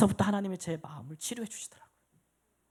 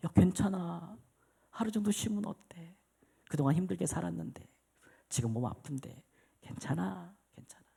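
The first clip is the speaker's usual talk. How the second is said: soothing self-talk; 7 dB quieter than usual. Retold or imitated. Soothing inner voice to himself.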